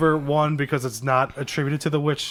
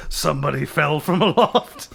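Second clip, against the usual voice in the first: sea captain voice. Pretend. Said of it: "a different sea captain voice".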